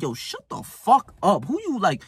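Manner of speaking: stretched-out mock outrage; imagined angry retort. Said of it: "in my head, I say".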